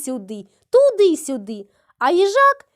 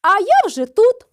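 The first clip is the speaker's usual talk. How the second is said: a triumphant call, higher and louder; shout; 5 semitones higher, 5 dB louder than usual. A narrator's reading. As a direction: cry out that you're already here. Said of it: "та й крикни".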